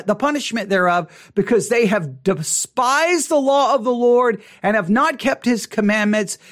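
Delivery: measured solemn Bible reading; scripture reading. Acted. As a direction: read it out like a pulpit lesson. Reads Amos aloud.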